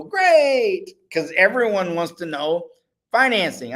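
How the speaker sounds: a high, loud burst of mock Spanish accent; stupid Spanish accent. Viewers reacting happily to the subtitles, in a mock Spanish accent. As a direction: cheer it like a cartoonish Spanish-speaking viewer. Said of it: "that was a stupid accent".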